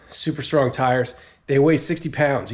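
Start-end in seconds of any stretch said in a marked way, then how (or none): 1.5-2.5 winded after heavy lifting; out of breath, catching air. Real, not acted. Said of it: "I'm a little out of breath".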